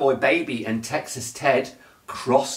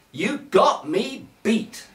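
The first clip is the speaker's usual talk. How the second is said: Sheriff Pa calling; 8 semitones higher than usual. A narrator's reading. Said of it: "called Sheriff Pa".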